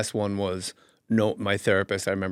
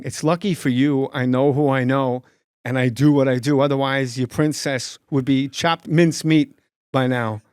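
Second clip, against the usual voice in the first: Walken impression; 3 dB louder than usual. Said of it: "it's like a song".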